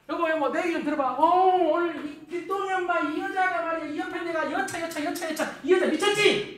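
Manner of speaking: acting out an indignant complaint; worked-up wife. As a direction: rant like a riled-up wife. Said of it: "여자가 괜히 열받고 올 때".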